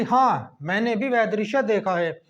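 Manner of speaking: a short comma break right after हाँ; pause after हाँ. Shown as a demonstration. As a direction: say हाँ, pause briefly, then continue. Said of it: "के बाद जो थोड़ा सा ठहराव आता है". (हाँ के बाद थोड़ा ठहराव)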